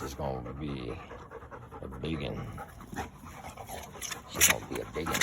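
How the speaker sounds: mock-deep voice for a big pup; playful deep voice. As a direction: drop low to sound big. Talking up a big dog.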